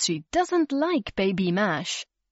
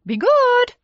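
much higher, louder playful goodbye; parting warning; 9 dB louder than usual. A narrator's reading. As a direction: call it back over the shoulder. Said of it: "they said".

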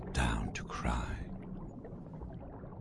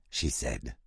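ordinary delivery

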